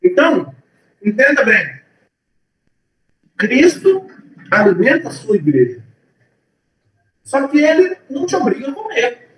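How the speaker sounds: preaching with a mouth full; words round a bite of food. Real, not acted. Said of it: "eu vou ter que falar com a boca cheia".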